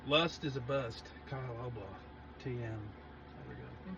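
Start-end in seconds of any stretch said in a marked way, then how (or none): 0.1-2.6 mock slogan again. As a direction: say it like a catchphrase with credit. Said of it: "Do I need to do both of those?".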